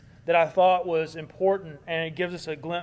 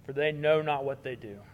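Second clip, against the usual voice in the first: tender plea; 3 semitones lower, 3 dB quieter than usual. Retold or imitated. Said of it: "He says".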